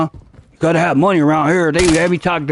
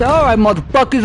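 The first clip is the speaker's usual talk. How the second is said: getting mad; 4 semitones higher than usual. Retold or imitated. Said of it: "you know, I get mad".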